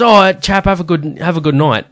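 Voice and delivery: lightly imitated hearty farewell; cheery sign-off. Acts out the man's farewell.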